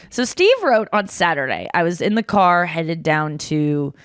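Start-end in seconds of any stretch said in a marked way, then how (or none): 1.7-3.9 put-on light Australian accent, lower and slow. On the podcast, reading Steve's message aloud in a lightly put-on Australian accent. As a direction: read it out in a half-hearted Australian accent. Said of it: "I'm doing an Australian accent".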